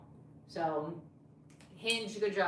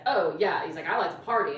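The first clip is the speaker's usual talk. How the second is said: imitating date; 9 dB louder than usual.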